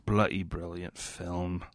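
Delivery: put-on a slow, light British Peaky Blinders accent. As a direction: say it like Tommy Shelby would. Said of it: "I can't speak normal".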